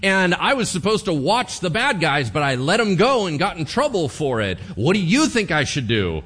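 starts high and loud, settling down by the end; hammed-up beggar soldier. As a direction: plead to the king, overplaying it. Disguised prophet petitions the king.

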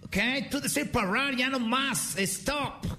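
high, slow announcer voice; high slow mock announcer. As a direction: announce the rules to the crowd. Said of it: "le dicen".

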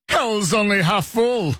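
high, drawn-out mock holler; mock shout. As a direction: stretch it out high like an old-timey call. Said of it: "would have been shouted from one Model T".

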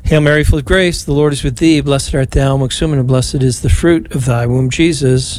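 even, devout prayer cadence, last line whispered; prayer recitation. Acted. Priest leading radio rosary, devout prayer recitation. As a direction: pray it aloud for the listeners. Leads Hail Mary.

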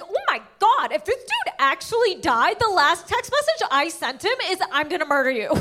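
high mock panic; panicked. Comic replaying her panic at the door, high and frantic. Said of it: "I was like".

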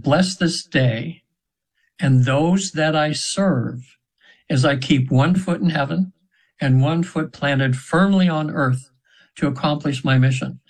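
slow, reverent prayer recitation; measured, devout prayer. Retold or imitated.

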